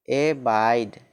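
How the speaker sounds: एबाइड said clearly as e-baid, stress on baid; teacher models एबाइड for students, e-baid; teacher's model word. Shown as a demonstration. Teacher to pupils: एबाइड, e-baid, clear model. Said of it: "A B I D E".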